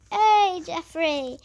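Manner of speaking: loud teasing call, then dropping off; mock call-out. Teasing a younger kid across the hall, a loud mock call. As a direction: yell the name across the corridor. Calling out to the year seven.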